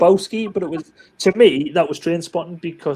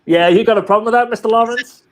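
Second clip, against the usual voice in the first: sensei's challenge; 4 semitones higher, 6 dB louder, faster than usual. Acted.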